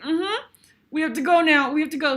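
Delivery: imitating a high, tight reply; retold high-pitched urge to leave; overcome, hurrying off. Performer to stage partner after an emotional moment, high and urgent.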